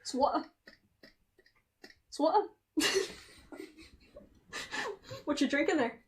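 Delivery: clipped "It's water", t dropped, "wa'uh"; playful fake British "It's water"; mock British water. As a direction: drop the t like a Londoner. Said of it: "Would you like some water".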